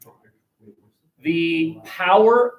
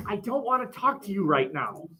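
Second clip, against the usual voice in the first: higher, much softer voice; softened brush-off; 4 semitones higher, 9 dB quieter than usual. Retold or imitated. Teacher voices what the busy person means, soft brush-off. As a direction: voice a hushed, polite brush-off.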